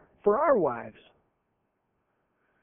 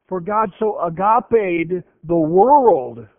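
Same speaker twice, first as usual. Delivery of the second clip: emphatic scripture; 7 dB louder, slower than usual. Acted.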